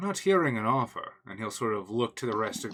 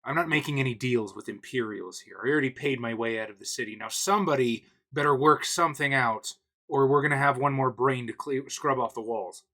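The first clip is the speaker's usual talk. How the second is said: threatening gangster; 2 semitones higher, 3 dB louder than usual. Acted. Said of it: "points it in the Imperial's head and says".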